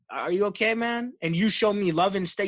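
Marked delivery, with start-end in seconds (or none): 0.1-1.1 gentle check-in, lifting high at the end; concerned. Acted. Answering someone who is yelling at you, concerned. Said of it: "you show me concern".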